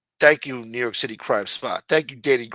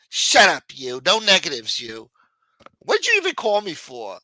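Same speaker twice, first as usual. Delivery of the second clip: angry ex-friend; 2 semitones higher, 6 dB louder than usual. Acted. Acted quarrel continues.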